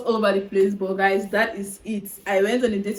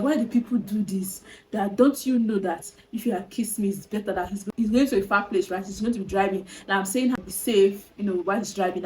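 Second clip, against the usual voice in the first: whisper. Retold or imitated. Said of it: "And I was like".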